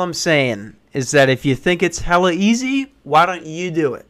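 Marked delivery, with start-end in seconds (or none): none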